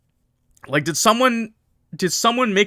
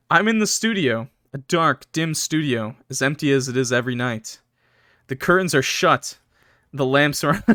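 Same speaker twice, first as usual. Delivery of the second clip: measured, moody first-person narration; story narration. A narrator's reading. Streamer reading a horror story to chat, measured narration. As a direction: read it as a grim tale.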